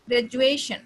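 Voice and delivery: "ग्रेजुएशन" punched loud on the JUE part; stressed middle syllable. Shown as a demonstration. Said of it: "second syllable पे आपका stress".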